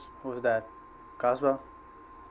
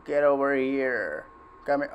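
scorpion voice. Acted. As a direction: drag out get over here like Scorpion. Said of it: "I sound like Scorpion now".

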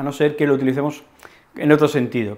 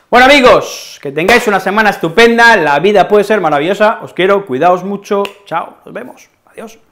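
despedida efusiva; 6 semitones higher, 5 dB louder than usual. Real, not acted.

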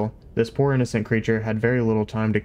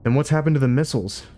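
alarmed shout; 5 semitones higher, faster than usual. Acted. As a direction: jump up and demand it. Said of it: "Zephod leapt out of his seat".

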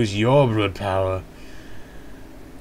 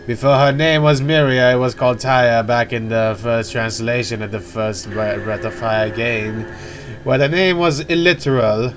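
aside kept in the lowered character voice; game character voice. Acted. Player notes old translation names to viewers, still in the character's voice. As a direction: explain trivia without dropping the character's voice. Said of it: "Why am I still using his voice".

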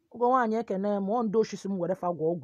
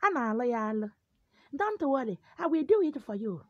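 higher-pitched, coaxing reassurance; mock petting; 4 semitones higher than usual. Native doctor petting a client for money, mock-soothing. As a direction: coax them like a sweet-talking native doctor. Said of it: "They will be petting you".

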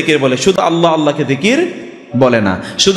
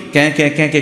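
repeated parrot cries, lightly imitated; understated dying-bird squawk; much faster than usual. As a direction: mimic a struggling bird's squawks. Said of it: "পাখিটা ছটফট করে".

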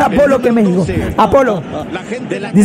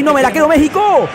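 shout at México; 5 semitones higher than usual. Real, not acted. Reacting to match.

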